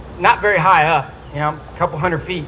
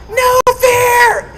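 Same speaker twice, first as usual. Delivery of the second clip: full shout, much higher and louder; yelling; 5 dB louder than usual. Retold or imitated. Crew chief yelling at him from the helicopter, full shout. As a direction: bellow it over the rotor noise. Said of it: "that's what Ned's yelling at me".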